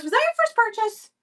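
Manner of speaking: excited squeal. Real, not acted. Host squeals to a buyer about the purchase, excited high question. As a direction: squeal it to a happy new buyer.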